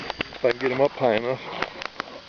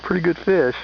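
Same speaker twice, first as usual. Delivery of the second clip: excited; 5 semitones higher than usual. Real, not acted. Big fish strikes, excited.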